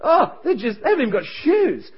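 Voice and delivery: high-pitched mock whine; whining. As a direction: pile up complaints in an imitated, swooping moan. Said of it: "His mate was just whining".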